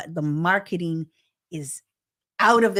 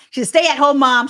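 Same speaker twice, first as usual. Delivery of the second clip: louder and higher, emphatic correction; 9 semitones higher, 10 dB louder than usual. Real, not acted. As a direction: land the correction with force.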